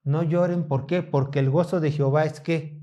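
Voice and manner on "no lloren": a softer, comforting "No lloren"; gentle comfort. Acted. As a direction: ease them with a soft "No lloren". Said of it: "Con estas palabras".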